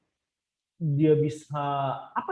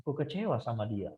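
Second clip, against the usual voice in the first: "Aku kecewa sama dia" said much softer and lower, like a confession; 3 semitones lower, 8 dB quieter than usual. Shown as a demonstration. Preacher modelling an honest prayer, much softer and lower. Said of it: "Begitu kita bilang".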